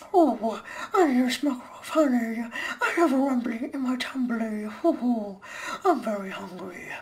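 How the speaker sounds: gentle, hungry cartoon bear; sweet high honey-loving bear; Winnie the Pooh. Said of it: "Winnie the Pooh really well".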